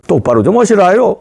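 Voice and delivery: mild North Korean dialect, ordering; North Korean accent. Retold or imitated. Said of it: "사투리가 잘 안 되네".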